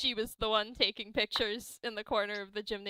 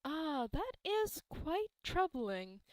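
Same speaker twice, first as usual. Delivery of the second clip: stroke the beard, ponder aloud; wise old man; 3 semitones higher than usual. Acted. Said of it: "strokes his beard and he's like".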